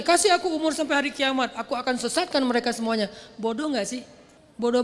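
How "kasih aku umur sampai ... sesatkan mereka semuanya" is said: challenging Iblis. Acted. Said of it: "nantangin lagi".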